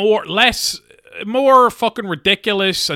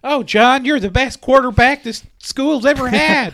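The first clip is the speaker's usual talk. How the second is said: high, swooning schoolgirl voice; high gushing teen girl; 9 semitones higher than usual. Pretend. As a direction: gush over the quarterback.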